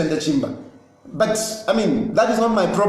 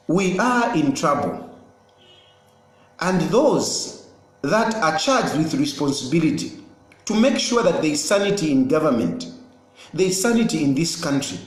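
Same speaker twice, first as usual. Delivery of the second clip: cooling down; 5 semitones lower than usual. Real, not acted. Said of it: "let me cool down".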